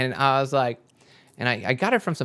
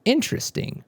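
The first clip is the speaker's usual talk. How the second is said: intrigued; 14 semitones higher, 3 dB quieter than usual. Retold or imitated. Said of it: "and I was like".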